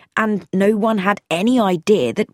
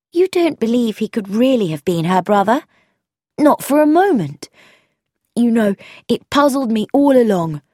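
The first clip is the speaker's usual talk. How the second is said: put-on higher, animated young woman's voice; quick, curious and sure; young woman voiced with lively interest; Frankie, eager; 3 semitones higher, 4 dB louder than usual.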